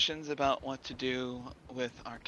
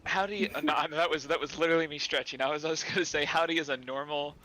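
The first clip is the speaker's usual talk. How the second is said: excited; 2 semitones higher, 5 dB louder than usual. Real, not acted. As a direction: defend it with excitement. Defending howdy, excited.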